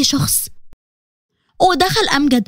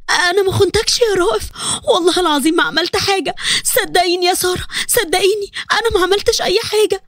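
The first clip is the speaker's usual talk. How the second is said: desperate denial; 3 semitones higher than usual. Acted. Wife denies betrayal, screaming awake.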